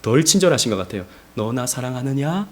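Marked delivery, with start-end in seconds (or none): 1.3-2.5 low, soft, tender question; hushed affectionate asking, acted; warm, kind. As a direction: ask very gently, with affection. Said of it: "따뜻하게".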